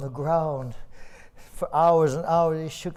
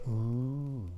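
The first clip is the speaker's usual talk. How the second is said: soft ooh; 3 semitones lower, 8 dB quieter than usual. Shown as a demonstration. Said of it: "Go ahead, lean forward and say".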